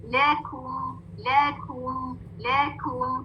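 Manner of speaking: लेकुम with a long, rounded "oo"; drawn-out recitation. Shown as a demonstration. Teacher modelling a word for her class, drawn-out rounded recitation. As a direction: stretch the "oo" of लेकुम with rounded lips. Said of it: "और sound कैसी है".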